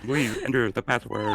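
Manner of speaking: breathy inhaled robot voice. Pretend. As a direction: talk on the in-breath like a machine. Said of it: "just inhaling as I talk".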